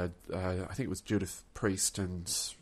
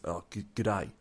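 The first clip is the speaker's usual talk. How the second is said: lightly imitated English accent. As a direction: greet with a hint of an English accent. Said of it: "it was actually an English accent".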